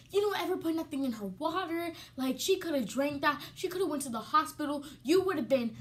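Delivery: mock furious cousin scolding; angry cousin. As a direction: tell her off for the drink. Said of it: "my cousin is like".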